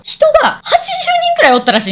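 high, laughing disbelief; giggling as she tells it. Real, not acted. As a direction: laugh through the number.

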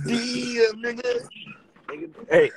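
high squeaky laughing protest. Real, not acted. Guest laughs, then denies.

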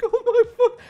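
exasperated groan. Retold or imitated. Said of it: "I'm like".

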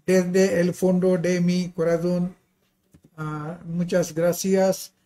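Spanish with a foreign accent; careful non-native Spanish. Real, not acted. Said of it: "apologies for my Spanish pronunciation".

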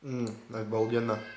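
chewing while talking; talking with food in mouth; mouth full. Real, not acted. Seen 0: Lips closed, chewing after a bite, bitten burger in hand.

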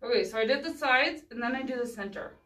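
talking around pins held in lips; mumbling with pins between the lips; pins in mouth. Real, not acted. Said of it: "She's talking with pins in her mouth".

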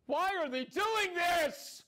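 high, drawn-out wail of protest; anguished cry. Acted. Watching a brother crucified, acted anguished cry.

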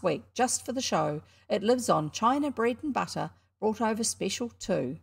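put-on a cocky boy hawking his show; boy barker at a penny show; boy showman. William as fairground showman.

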